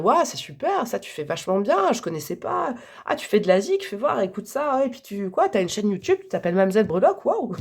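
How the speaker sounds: imitation enthousiaste, plus aiguë; gens enthousiastes imités. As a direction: jouer les admirateurs emballés, voix qui monte. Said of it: "des gens tous les jours qui vont vous dire". (des inconnus qui la complimentent, imitation emballée)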